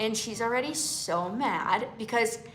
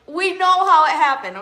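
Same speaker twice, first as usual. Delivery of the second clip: teasing sisters; 7 semitones higher, 10 dB louder, faster than usual. Retold or imitated. Sisters joking about mom's line.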